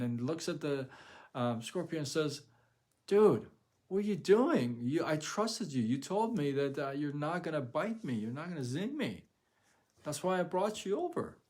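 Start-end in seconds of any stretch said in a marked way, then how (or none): 3.1-11.4 outraged frog. Acted. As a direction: hurl the betrayal back at the scorpion. Betrayed dying frog confronts scorpion.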